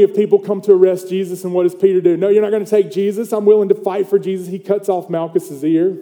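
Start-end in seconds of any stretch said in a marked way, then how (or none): 2.2-4.5 quick, higher acted defiance; defiant protest. Disciple defends his teacher from arrest, quick defiant protest. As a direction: rush it out as a zealous defender.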